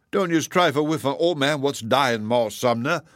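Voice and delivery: a hint of aggrieved dying man, in dialect; lightly voiced old cook. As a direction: protest in Southern dialect, mildly wounded.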